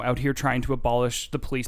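normal talking voice

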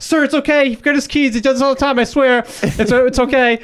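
high, urgent mock call-out; imitated yelling. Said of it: "yelling at the window".

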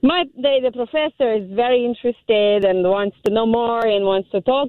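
deliberate, put-on Russian accent; fake Russian accent. Caller describing a curious professor, fake Russian accent. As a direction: slip back into a mock Russian accent. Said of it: "gotta get that Russian accent back".

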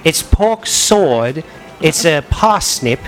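slow, lightly put-on British accent; mock British accent. Host reads slang list to friends in a light mock British accent. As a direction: read the list in a faint British accent, drawing out each word. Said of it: "I've gotta say it with my British".

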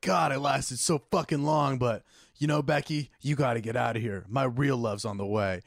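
mock breakup. Man dismisses imaginary Becky, mock earnest and low. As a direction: lightly act out letting someone down. Acts the improv breakup scene.

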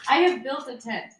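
echoey, tunnel-like sound; like talking from a tiled bathroom; echoing bathroom. Real, not acted. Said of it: "Why does it sound like Amy is in a tunnel?".

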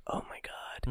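imitating a stunned whisper; barely voiced mock horror under the breath; horrified whisper. Acting the girl who spots the brain, in a horrified whisper.

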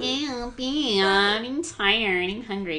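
high, drawn-out mock girly whine; girl voice on a guy. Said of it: "you reappropriated it 'cause you used it on a guy".

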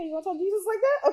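high, fast, mock-shocked tease; teasing aside. Real, not acted. Preacher teasing viewers about the prayer, amused.

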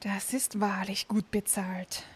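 amazed. Acted. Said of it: "staunte der große Klaus".

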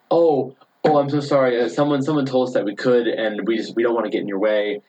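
butter her up with a sorry; mock gracious friend smoothing things over; gracious apology. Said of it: "he was so gracious".

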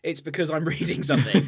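amused, laugh breaking in; laughing admission. Real, not acted. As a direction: confess it through a laugh. Laughs while admitting toilet reading.

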